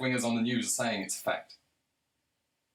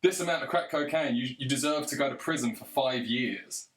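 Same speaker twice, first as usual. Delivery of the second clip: imitating Biden ranting. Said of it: "big speech".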